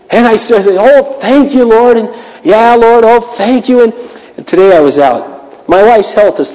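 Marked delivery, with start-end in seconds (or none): 0.7-3.8 hammed-up, high, gushing thanks through gritted teeth; forced cheerful praise. Pastor forces himself to thank God for the mess, hammed-up cheerful praise. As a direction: fake it, much higher and sing-song.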